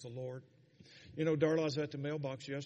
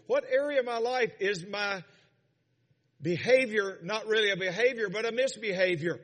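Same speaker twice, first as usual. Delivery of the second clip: raised pitch, rhythmic exhortation; fervent preaching; 7 semitones higher, 7 dB louder than usual. Real, not acted. Preacher urging self-examination of heart and mind, fervent preaching. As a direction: press searching questions on the congregation.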